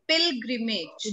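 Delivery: "Pilgrimage" slow and distinct, pil-gri-mage; teacher drawing out "Pilgrimage" syllable by syllable; corrective pronunciation. Shown as a demonstration. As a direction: model "Pilgrimage" slowly with a hard g. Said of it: "What is it?".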